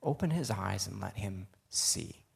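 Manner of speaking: slow, softening prayer; prayerful. A narrator's reading. Prophet praying for his servant's eyes to open, slow and prayerful. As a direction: read it as a measured, quiet plea. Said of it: "Then Elisha prayed this".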